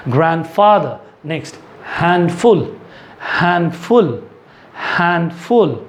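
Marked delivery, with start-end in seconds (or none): 2.0-5.8 हैंडफुल said with the d barely touched; model word, repeated. Shown as a demonstration. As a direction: drill हैंडफुल three times, d held back. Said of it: "मेरे mouth की opening देखिए".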